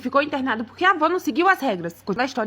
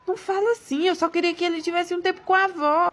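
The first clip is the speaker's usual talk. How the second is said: higher-pitched protesting husband; pleading husband; 4 semitones higher than usual. Acted. Husband defends himself to his angry wife, pleading.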